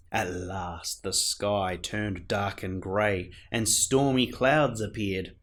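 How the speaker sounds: put-on lively read-aloud for children; gentle sing-song story narration; storybook reading. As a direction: read it like a bedtime picture book. Reads a picture book aloud.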